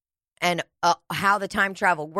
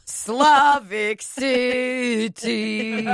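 very slow; 2 semitones higher, much slower than usual. Pretend. Drawn-out joke voice.

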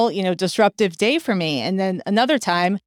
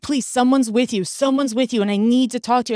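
insistent higher-pitched imitated plea; play-acted pleading, pitched up; retold begging; 5 semitones higher than usual. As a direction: imitate a stranger begging to be heard. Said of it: "he was begging me".

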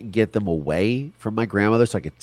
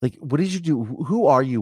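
high-pitched incredulous questioning; retold bafflement; 8 semitones higher than usual. Child wondering at father's sudden niceness, in retold bafflement. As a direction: question it in disbelief, pitch jumping up.

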